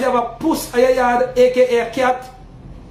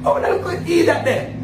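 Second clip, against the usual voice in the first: laughing; 6 semitones higher than usual. Retold or imitated. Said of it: "I say".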